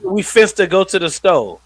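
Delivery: exaggerated AAVE example; hood slang. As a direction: imitate a mom teaching Ebonics, punched up. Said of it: "trying to teach her daughter to talk like a hood nigga".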